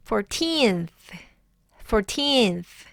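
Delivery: put-on "fourteenth" with long, falling "teenth"; second-syllable stress. Shown as a demonstration. Teacher modelling the contrast for learners, "fourteenth" stressed on "teenth". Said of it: "두 번째 강세가 온다".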